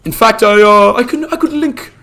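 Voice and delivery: hint of a bumbling old wizard; Gandalf role-play. Streamer playing Gandalf for chat, lightly voiced old wizard.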